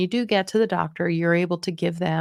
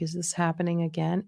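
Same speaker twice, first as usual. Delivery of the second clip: softer, mildly exasperated aside; eye-rolling weariness; 6 dB quieter than usual. Shown as a demonstration. Coach shows how not to answer a relative, wearily exasperated. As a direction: mutter it with a mental eye-roll. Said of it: "You can't be rolling your eyes like".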